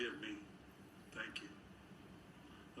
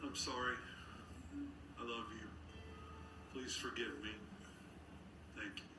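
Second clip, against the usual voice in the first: softer, tender like a mother; like his mom; 3 semitones lower, 8 dB quieter than usual. Shown as a demonstration. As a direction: say it the way a loving mother would. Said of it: "Say it like his mom would say it".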